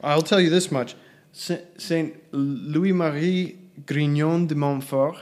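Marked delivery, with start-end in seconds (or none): 1.3-5.2 bad French accent. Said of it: "Nice, nice accent".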